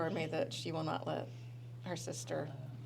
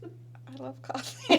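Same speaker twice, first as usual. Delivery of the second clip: laughing confession; 6 semitones higher, 4 dB louder, much slower than usual. Real, not acted. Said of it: "'Cause it's embarrassing".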